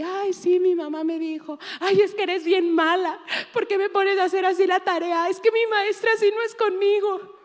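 high, whiny mock girl complaining about homework; whining daughter. Pastor imitating her daughter Samantha whining about homework. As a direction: whine like a teen against strict mom.

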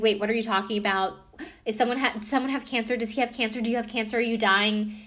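quick, rising alarm; panicked sister. Retold or imitated. Sister panicking over bad news, quick alarmed questions. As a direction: rattle off the worried questions.

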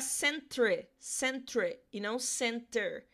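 'centre' said slowly, set against 'center'; British spelling word. Shown as a demonstration. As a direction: model 'centre' slowly for the students. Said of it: "a gente vai terminar com R E".

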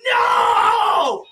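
put-on high, loud "No!" of a pinned kid; mock yell. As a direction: yelp it in protest. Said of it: "Vanessa just like".

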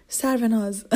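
put-on mom's Persian accent on a name. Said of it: "She would always say in her Persian accent".

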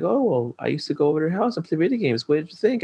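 put-on high, fast, breezy girl's voice; mock girl's voice. Girl teasing him about the crush, high and fast. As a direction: lightly play the girl, teasing and quick. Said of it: "And she was like".

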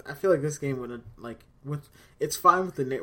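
choppy, cutting-out connection; words breaking up over a bad line; buffering stutter. Real, not acted. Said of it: "you cut out for a second".

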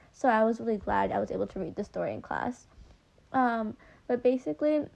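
speaking with a lisp through retainers; slight lisp with retainers in. Real, not acted. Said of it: "sorry for my lisp, by the way, 'cause I'm wearing retainers".

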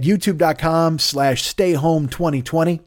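S's whistle through a numb mouth; whistling S sounds. Real, not acted. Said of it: "you get whistling out of my mouth because my mouth doesn't work any longer".

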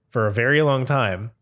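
ordinary delivery

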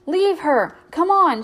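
high, loud urgent shout. A narrator's reading. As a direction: yell it at the cat to follow. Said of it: "she shouted to the cat".

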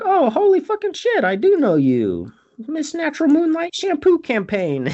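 loud, high mock astonishment; shocked recognition. Imitating man suddenly recognizing the shampoo girl, hammed-up shock. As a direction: exclaim it big as it dawns on you.

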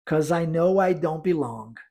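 slow, even practice line; slow repetition drill. Shown as a demonstration. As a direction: pace it slowly for students to echo. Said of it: "Vamos repetir?". (repetição lenta para praticar)

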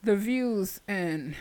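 slow, deliberate announcer read; mock disclaimer. Host covering co-host's remark, slow mock-formal disclaimer. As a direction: recite it like an official disclaimer, very slowly.

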